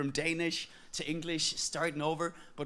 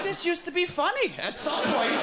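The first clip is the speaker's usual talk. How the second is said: high, louder, laughing mock lament; deflated joke; 11 semitones higher, 6 dB louder than usual. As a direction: whine it up high like the joke died. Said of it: "It's like".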